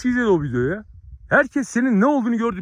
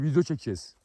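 mocking the friend; 5 semitones lower, 7 dB quieter than usual. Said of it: "Bana diyor ki".

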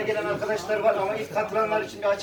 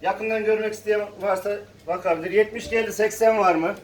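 calling out bids at auction; rhythmic auction calling; auctioneer; 3 dB louder than usual. Real, not acted.

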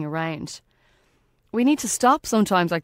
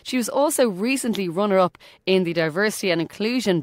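upbeat announcer. Acted. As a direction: present the guest like a radio host. Introduces the guest interview.

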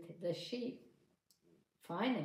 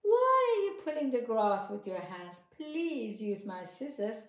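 higher, louder mouse offer; eager mouse; 4 semitones higher, 7 dB louder than usual. Acted. Mouse urging the farmer to use scissors, high and loud. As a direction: press the offer like a pushy little mouse. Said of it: "said the mouse".

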